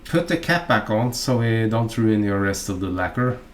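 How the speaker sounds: usual speaking voice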